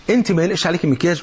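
mildly blunt, flat dismissal; a touch of cold bluntness; blunt put-down. Retold or imitated. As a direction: say it as the careless husband. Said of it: "بدل ما تقول لزوجتك".

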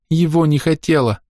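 put-on a child excusing herself while crying; girl mumbling through tears. A narrator's reading. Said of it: "сквозь слёзы пробубнила Акулина".

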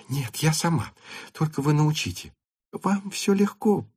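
put-on high, soft girlish voice; gentle eagerness; eager girl. A narrator's reading. Natasha answers her smiling mother, soft.

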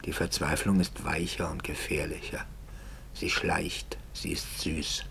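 tonlos geflüstert, verführerisch leise. Acted. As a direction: die Süße flüsternd hauchen. Verzweiflung leise beschrieben. (leises Flüstern)

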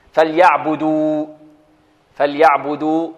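فليعبدوا drawn out slowly, every letter light and thin; light articulation. Shown as a demonstration. Teacher models the word for students, light articulation. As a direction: recite فليعبدوا slowly with all letters thinned. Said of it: "هنا كلها مرققة".

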